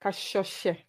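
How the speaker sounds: Kashoshe echoed carefully after the teacher; repeated corrected pronunciation. Real, not acted. Host repeating the guest's surname after correction, careful pronunciation.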